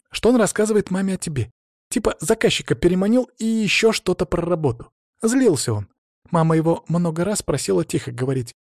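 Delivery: put-on a teen girl telling her dad what happened; hint of a hurt young daughter; teenage daughter. Tonya explains to father.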